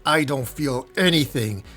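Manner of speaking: understated cold reply; coldly. Acted. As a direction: answer with a touch of coldness. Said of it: "As Slade coldly responds".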